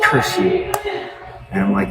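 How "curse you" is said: voiceless hissed curse you; whispered mock curse. Customer curses streamer over bad fortune, whispered. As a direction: curse them under the breath, hammed-up. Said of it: "And they're like".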